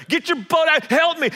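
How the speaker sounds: high, loud call across water; yelling to partners. Retold or imitated. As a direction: shout for help to the other boat. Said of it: "starts to yell".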